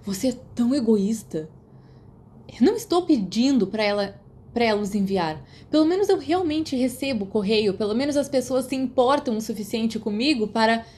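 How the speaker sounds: put-on boy snapping at his friend in a fight; angry quarrel. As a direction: lash back, hurt and indignant. Sirius and Remus quarrel.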